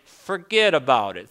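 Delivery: lightly put-on New York accent; a passing touch of New York. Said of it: "Think about the New York accent".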